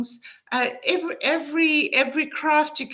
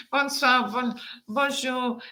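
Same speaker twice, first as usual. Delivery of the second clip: French pronunciation of Bonsoir and bonjour; French greeting. Shown as a demonstration. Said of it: "I can say".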